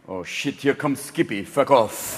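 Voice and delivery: low, soft muttered complaint; mock grumbling. World leaders seeing Bush arrive, low muttered grumble. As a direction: grumble it under your breath. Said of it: "they'll be up there going".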